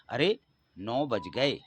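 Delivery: slow exclamation with "अरे" rising, a mild touch of surprise; exclamation read aloud. Shown as a demonstration. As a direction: show the exclamation mark by saying "अरे" with a lift, slowly. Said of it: "इसका इस प्रकार उच्चारण करेंगे".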